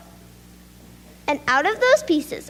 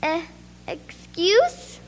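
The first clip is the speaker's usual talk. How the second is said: hesitant, rising "excuse?"; a lightly stammered question; stuttering; 3 semitones higher, 3 dB quieter, much slower than usual. Acted. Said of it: "Marco stuttered".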